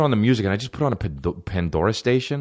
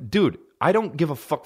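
higher-pitched annoyed comeback; retold exasperation; 6 semitones higher than usual. Comic retelling his reply to pushy buddy, exasperated. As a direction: brush him off, mildly exasperated.

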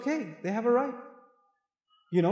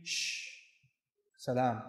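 much softer, lower shh then salam; soothing hush; 9 semitones lower, 11 dB quieter, slower than usual. Shown as a demonstration. Showing wives how to calm an angry husband, soft hush. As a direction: hush him gently. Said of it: "Change the subject".

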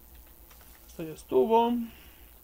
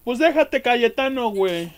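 loud, high shout at the enemy; exasperated yell; 4 semitones higher, 10 dB louder than usual. Real, not acted. Gamer yelling at enemy Cayetano, loud exasperated shout. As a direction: yell it at the dodging foe.

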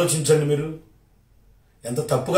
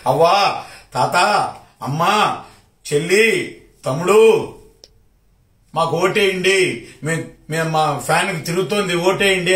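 mock campaign plea. Mocking the rival's election plea to voters, singsong begging. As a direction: ham up a politician begging for votes in Telugu. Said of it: "అని అడిగారు కదా".

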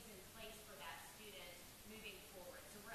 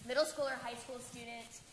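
louder, projected cheerleader voice; 4 semitones higher, 11 dB louder than usual. Shown as a demonstration. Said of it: "Am I gonna have to use my cheerleader voice?".

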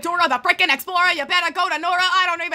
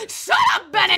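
whiny shout; 3 semitones lower than usual. Real, not acted. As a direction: yell it in frustration. Yelling at narrator.

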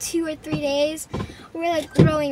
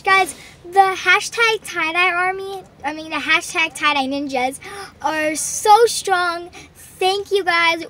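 excited hype; 3 semitones higher, 5 dB louder than usual. Real, not acted. Hyping up the tie dye army.

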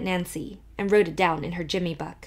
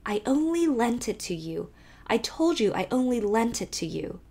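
indignant; 3 semitones higher than usual. Acted. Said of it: "said Emily indignantly".

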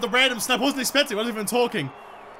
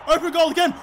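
higher, eager call; rising excitement; 5 semitones higher, faster than usual. Real, not acted. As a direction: repeat it as the chance opens up.

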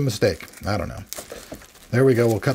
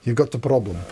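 hammed-up attempt at an Aussie accent; mock Australian accent; bad Australian accent. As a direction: have a go at an Australian accent, badly. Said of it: "Probably not my best Australian accent".

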